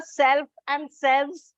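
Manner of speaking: slow, careful "self, and selves"; spelled out slowly for the class; stressing self and selves. Shown as a demonstration. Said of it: "where it is on the second syllable".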